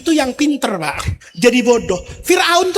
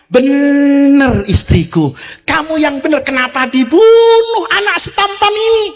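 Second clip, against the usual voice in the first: fond Pharaoh. Acted. Pharaoh agrees with his wife.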